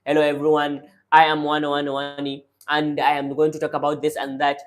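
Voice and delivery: fast, rushed nervous speaker; hurried, running the words together; nervous fast talk. Shown as a demonstration. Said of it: "nervous speaker speaking very fast".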